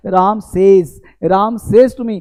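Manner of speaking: "सेज" said as sez with a z sound; right pronunciation. Shown as a demonstration. Teacher drilling the correct "सेज" with students. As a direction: repeat "सेज" as sez, clearly. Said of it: "उच्चारण है वो सेज बोलना है".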